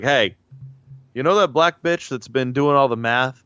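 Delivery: lightly voiced quote of an astronaut; a hint of an astronaut impression; John Glenn impression. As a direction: act out the astronaut's request, lightly. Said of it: "That's what John Glenn sounded like".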